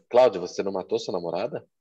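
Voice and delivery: quick question rising on "namorada"; questioning tune. Shown as a demonstration. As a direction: ask "você não matou sua namorada" with a final rise. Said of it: "é a mesma frase".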